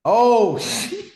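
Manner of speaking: high laughing oh shit. Retold or imitated. Laughing while retelling his reaction to Matt. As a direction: squeal it through a laugh.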